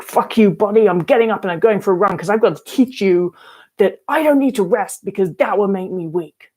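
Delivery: mock-defiant, telling her body off; defiant outburst at her body. Recalling defying her body, a mild mock outburst. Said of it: "I was like".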